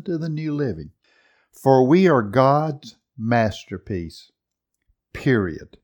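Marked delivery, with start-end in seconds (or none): 1.5-4.3 slow, louder, stress on "we"; emphatic reading. Shown as a demonstration. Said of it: "Period said for emphasis". 5.1-5.8 "Period" said as a firm, falling full stop; emphatic period. Shown as a demonstration. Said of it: "Period said for emphasis".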